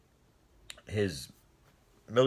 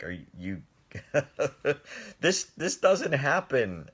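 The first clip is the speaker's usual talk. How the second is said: laughing disbelief; 4 semitones higher than usual. Retold or imitated. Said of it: "and I was laughing".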